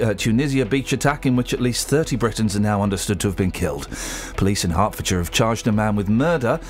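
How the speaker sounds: measured radio newsreading; news headline read. Real, not acted. Radio presenter reading morning headlines to listeners, newsreader delivery.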